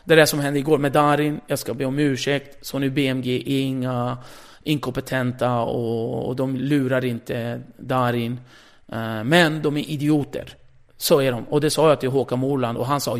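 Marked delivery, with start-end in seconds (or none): 0.0-11.4 louder, sarcastic announcer apology; mock on-air apology. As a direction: apologise while twisting the knife. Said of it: "säger jag då vid sju och trettio". (ironisk ursäkt i sändning)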